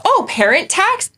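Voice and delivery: high slow playful ask; cheeky offer. Retold or imitated. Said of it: "And I go".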